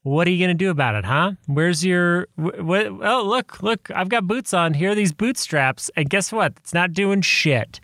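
ranting at younger self, mock-heated. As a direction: scold a smug kid, half joking. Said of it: "sit him down and be like".

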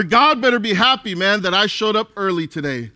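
quick, cocky boast, lightly put on; mock entitled boast. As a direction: rattle it off like a proud churchgoer expecting thanks. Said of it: "had that attitude".

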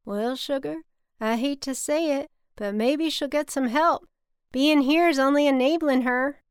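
high, loud Southern drawl, building exasperation; Bobby, thick Southern drawl. A narrator's reading. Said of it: "in his thick cotton drawl".

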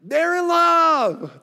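high, slow, dreamy swoon; drawn-out lovestruck sigh of a line. Pretend. Pastor to congregation about the biblical lovers, slow swooning high voice.

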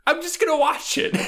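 high, mock-fretting self-talk; inner voice. Stoned at home, a lightly high fretting inner voice. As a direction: debate with yourself, fretting. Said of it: "then I'm like".

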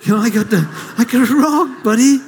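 lightly voiced glum Charlie Brown, rising to a laugh; a hint of Charlie Brown ending in a laugh. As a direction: mope it out like Charlie Brown, then crack up. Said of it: "This is where Charlie Brown comes in".

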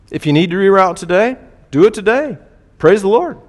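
loud, high-pitched jubilant exhortation; exultant preaching. Real, not acted. Preacher rejoicing over late repentance.

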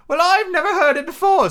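high, loud turtle voice; Mock Turtle figure. Mock Turtle advising Alice, high character voice. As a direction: declare it way up high as a storybook turtle.

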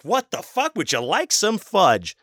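very high, slow mocking echo of the server; incredulous mock repeat. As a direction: repeat it in disbelief, hamming the sugary voice. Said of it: "I was like".

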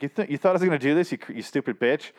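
quick indignant outburst, imitated; going off on someone. Reviewer retelling his tirade at the woman, indignant. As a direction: start high and fast, land on the insult. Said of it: "he just goes off on her".

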